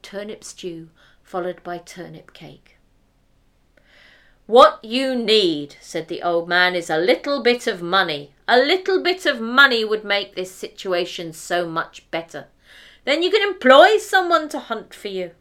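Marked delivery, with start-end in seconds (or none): 4.5-15.3 lightly voiced old father.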